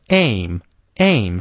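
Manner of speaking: "aim" drawn out slowly with the full ay glide; full diphthong in AIM. Shown as a demonstration. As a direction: stretch "aim" through both sounds of its diphthong. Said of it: "双音念到位".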